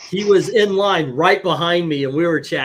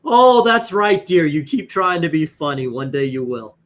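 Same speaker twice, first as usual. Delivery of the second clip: put-on teasing older lady; 4 dB louder than usual. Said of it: "and she goes".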